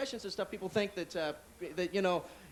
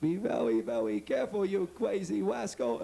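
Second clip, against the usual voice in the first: warning car; slower than usual. Retold or imitated. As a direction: drawl the warning like a cartoon character. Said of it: "car that speaks".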